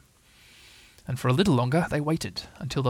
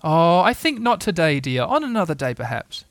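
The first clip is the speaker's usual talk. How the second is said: lightly voiced patient mother; gentle motherly refusal; 4 semitones higher, 4 dB louder than usual. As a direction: let the child down gently. Kanga gently refusing her child.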